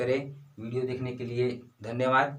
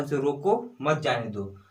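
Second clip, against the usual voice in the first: "रोको" set apart from "मत जाने दो"; pause after रोको. Shown as a demonstration. Teacher repeats the order to stop him, breaking after "रोको". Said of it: "उसे रोकने का बात कर रहा है".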